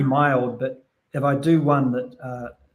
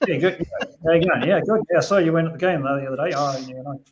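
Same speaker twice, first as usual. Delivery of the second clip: broad Kiwi accent. Shown as a demonstration. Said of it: "So it's like".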